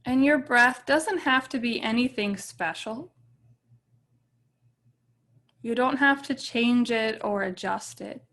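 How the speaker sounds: calm meditation guide with long, settling pauses; guided meditation. Real, not acted. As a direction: ease them gently into stillness, leaving space between phrases.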